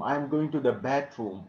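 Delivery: "bathroom" as "batroom" inside the sentence; mistaken t sound. Shown as a demonstration. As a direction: act out the learner's slip, "bathroom" with a hard t. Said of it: "It is not bathroom".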